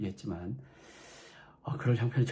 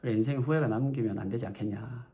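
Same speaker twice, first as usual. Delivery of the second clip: relaxed, easygoing mom; mild, unfazed motherly voice; coolly calm mother. Retold or imitated. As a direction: let it go like an unbothered mother. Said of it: "너무나 쿨하게".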